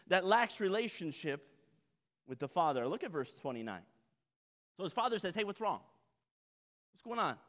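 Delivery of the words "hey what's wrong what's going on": gentle concern. Acted. Father gently asks angry son.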